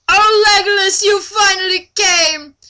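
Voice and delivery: high, loud swooning cry of relief; hammed-up delight. Reading Laura's line to a friend, high and swooning. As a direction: gush like a rescued damsel, overdone.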